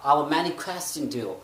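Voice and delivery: slow, aspirated English sentence; English accent. Shown as a demonstration. Teacher demonstrating English accent in a sentence. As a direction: read it slowly with English kh sounds. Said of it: "ख का sound देना है".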